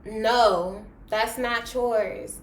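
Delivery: imitating a crying protest, slowed at the end; breaking down, played back in a retelling; mock tearful protest. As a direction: act out a tearful, drawn-out objection. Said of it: "I started crying".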